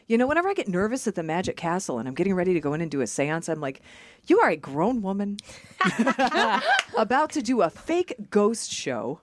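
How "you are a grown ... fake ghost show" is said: slow mock scolding breaking into laughter; hammed-up exasperation, higher and drawn out; exasperated self-talk. Nervous performer scolding herself before a seance, mock exasperated.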